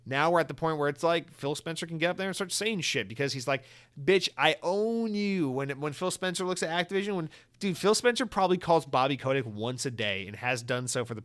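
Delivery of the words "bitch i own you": domineering boss. Acted. New owner lording it over the bought company, domineering. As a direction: draw it out and lord it over them.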